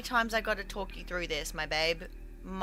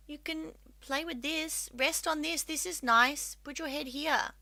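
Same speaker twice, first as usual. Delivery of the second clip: high-pitched coaxing pet talk; 6 semitones higher, 3 dB quieter than usual. Real, not acted. Coaxing the cat to settle.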